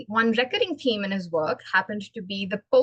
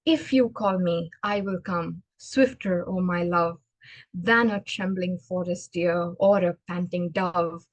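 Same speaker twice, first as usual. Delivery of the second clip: lower-pitched, rhythmic verse reading; poem recitation; 4 semitones lower than usual. Acted. Speaker shows listeners the poem's rising metre, reciting.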